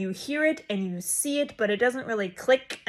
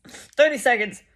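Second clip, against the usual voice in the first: whispered correction; 2 semitones higher, 7 dB louder than usual. Real, not acted.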